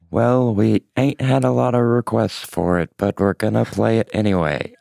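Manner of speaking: flat robotic monotone. Pretend. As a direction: say it like a machine. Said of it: "your favorite lyric in a robot voice".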